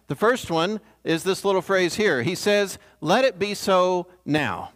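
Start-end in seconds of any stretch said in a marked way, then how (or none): 3.0-4.7 slow quote, "now" set apart by a pause; measured reading that lands separately on "now"; stress on now. Acted. Preacher quoting Jesus' cryptic clue, weight on "now".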